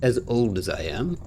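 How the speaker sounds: measured, formal reward speech; lightly voiced game character. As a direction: lightly act a courteous old racer handing over a prize. Reads the game figure's dialogue.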